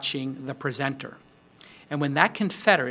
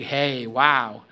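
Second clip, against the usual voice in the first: big wow; 3 semitones lower, 5 dB louder than usual. Shown as a demonstration. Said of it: "a big".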